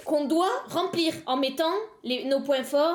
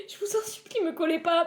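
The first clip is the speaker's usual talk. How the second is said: much higher, pleading whine; mock begging; 4 semitones higher than usual. Streamer begging her teacher watching the live, high pleading whine.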